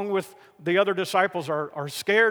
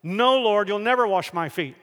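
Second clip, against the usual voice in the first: fairly forceful outburst of protest; blurted refusal; 3 semitones higher, 3 dB louder than usual. Acted. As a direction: blurt out the objection, hitting "No" hard. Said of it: "Peter again blurted out".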